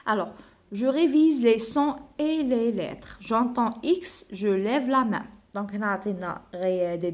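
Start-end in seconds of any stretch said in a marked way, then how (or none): 0.7-5.3 slow, deliberate classroom read; reading the task aloud. Acted. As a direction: spell it out for young pupils. Reads instructions to pupils. (قراءة التعليمة ببطء للتلاميذ)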